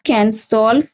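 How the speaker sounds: slow, word by word, repeating each chunk; slow dictation. Shown as a demonstration. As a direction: dictate it slowly for the class to write down. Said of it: "write the sentence like".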